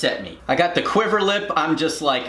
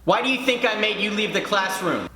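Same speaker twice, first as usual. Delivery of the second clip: mock teacher scolding; 5 semitones higher than usual. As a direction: imitate a cross teacher. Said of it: "she yells at me".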